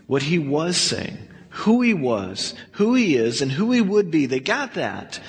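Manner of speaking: ordinary talk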